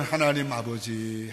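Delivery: low, slow call to the Father; tender call. Retold or imitated. Preacher recalling how calling God moved them, tender slow call. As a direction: draw it out like a private prayer.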